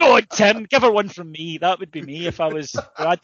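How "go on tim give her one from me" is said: mock encouragement. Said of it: "I'd be whispering encouragement".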